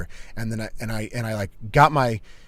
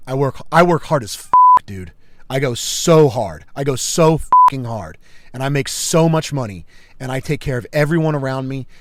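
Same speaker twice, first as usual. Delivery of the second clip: intense declaration; 6 dB louder than usual. Retold or imitated. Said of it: "this is what I said".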